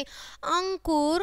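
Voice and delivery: अंकुर said slowly with the nasal अं sounded through the nose; slow nasal example. Shown as a demonstration. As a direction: stretch the nasal start of अंकुर. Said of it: "जिसकी ध्वनि नाक से निकलती है".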